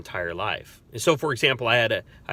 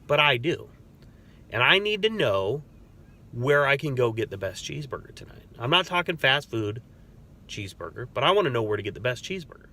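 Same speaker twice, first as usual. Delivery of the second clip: higher and quick, breezy and friendly; upbeat casual chat; 4 semitones higher than usual. Retold or imitated. Officer to screaming inmate, higher, quick, breezy casual chat. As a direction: disarm him with easy small talk. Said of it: "I said".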